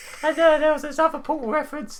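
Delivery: very high, loud, poorly done mock robotic voice.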